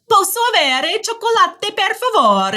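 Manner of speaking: put-on high, loud, bright-eyed child voice; little boy ordering. Young son ordering gelato in Italian, eager child voice. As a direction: play the eager six-year-old asking nicely. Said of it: "he's like".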